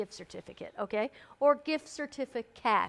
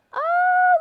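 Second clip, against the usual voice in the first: surprised oh; 13 dB louder than usual. Real, not acted. Spots a returning winner.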